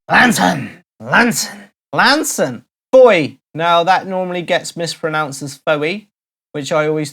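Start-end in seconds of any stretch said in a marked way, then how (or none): 0.1-2.6 Lanson repeated, "LAN-son"; local pronunciation. Shown as a demonstration. Host answering in character: Lanson. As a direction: drill the word Lanson. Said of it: "Lanson repeated".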